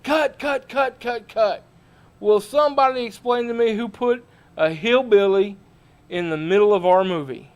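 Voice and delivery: angry film director. Retold or imitated. Film director yells cut.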